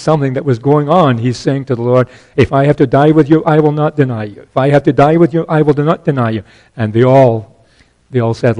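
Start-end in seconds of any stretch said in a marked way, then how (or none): 2.3-4.4 vehement protest. Retold or imitated. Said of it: "he spoke more vehemently". 4.4-6.4 vehement protest. Retold or imitated. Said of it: "he spoke more vehemently".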